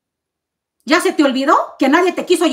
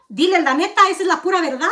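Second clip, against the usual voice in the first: said through a short laugh; 4 semitones higher than usual. Real, not acted. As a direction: let a laugh slip into the words. Repeats the claim twice.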